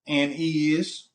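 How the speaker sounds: slow, drawn-out mock catchphrase; imitating women's saying. Man echoes what y'all women say, slow teasing imitation. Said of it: "like y'all be saying".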